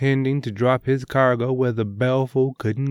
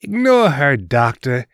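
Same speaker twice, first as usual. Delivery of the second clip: teasing. Acted. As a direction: brush her off with a smirk. Brother mocks sister.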